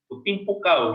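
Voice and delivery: imitating a hot-headed Medan neighbour's threat; mock angry threat. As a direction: bark it out like a hot-tempered Medan man. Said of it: "modelnya pemarah katanya".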